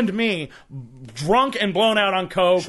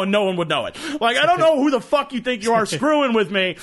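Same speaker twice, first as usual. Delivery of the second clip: raised, fast-building indignant tirade, re-enacted; retold angry rant; 4 semitones higher than usual. Man snaps at a teenage tagger, angry mock tirade. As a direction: tell off a cocky kid, half in jest. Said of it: "I fucking snapped. I was so pissed".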